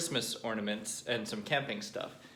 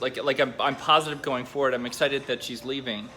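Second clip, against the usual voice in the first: emotional outburst; 2 semitones higher, 7 dB louder than usual. Real, not acted. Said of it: "Having a strange moment".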